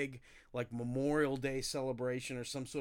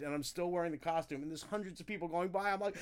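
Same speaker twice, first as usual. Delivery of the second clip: ordinary delivery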